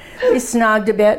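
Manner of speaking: usual speaking voice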